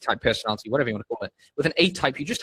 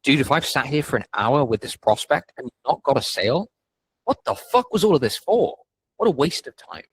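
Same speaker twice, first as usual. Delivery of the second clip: frustrated self-talk. Retold or imitated.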